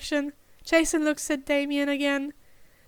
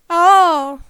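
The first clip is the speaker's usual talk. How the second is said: realising oh; 3 semitones higher, 12 dB louder than usual. A narrator's reading. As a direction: suddenly get it. Sudden realisation.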